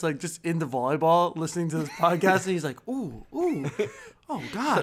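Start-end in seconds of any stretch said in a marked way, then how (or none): 2.9-4.8 put-on twelve-year-old boy. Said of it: "a twelve-year-old boy".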